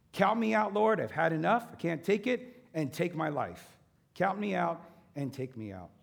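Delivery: impassioned plea. Acted. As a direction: throw the despair at God. Elijah's complaint at full force.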